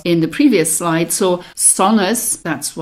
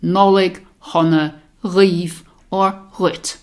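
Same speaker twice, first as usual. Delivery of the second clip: over enunciating; slower than usual. Shown as a demonstration. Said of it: "as I said".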